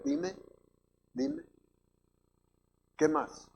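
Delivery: soft, short prompts with patient pauses; attentive listener God. Acted. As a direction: quietly urge someone to keep talking, as if listening closely. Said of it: "Así está Dios, hermano".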